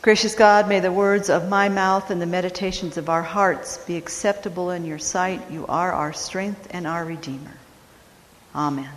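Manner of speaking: measured prayer, softening toward the amen; opening prayer. Real, not acted. Pastor leads congregation in prayer before the sermon, reverent and increasingly soft. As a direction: settle quietly into a reverent prayer.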